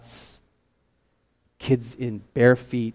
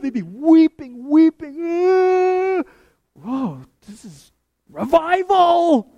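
high, loud, slow stretched-out weeping; preaching fervor; 6 dB louder, much slower than usual. Acted. Preacher describing revival to his congregation, loud and awed. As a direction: draw out each word with awe. Fervent climax of revival story.

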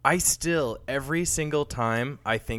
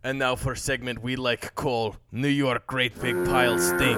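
put-on Russian accent without articles; clipped Russian accent, drop the articles. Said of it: "no articles, no A's, no the".

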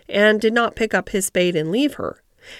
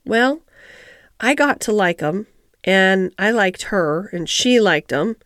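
put-on halting, mildly reluctant old gardener; reluctant admission. Ben admits to Mary he liked the roses, a touch reluctantly. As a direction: admit it bit by bit, with pauses. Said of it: "Ben Weatherstaff admitted reluctantly".

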